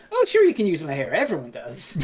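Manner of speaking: quick, offhand mock reply; casual, imitated nonchalance; breezily casual. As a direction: toss it off like it's nothing. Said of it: "She's just so casual about it".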